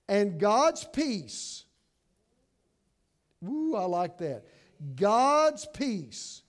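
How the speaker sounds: slow, weighty Bible reading; scripture reading. Acted. Preacher reading the verse to the congregation, slow. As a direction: lay out each phrase slowly.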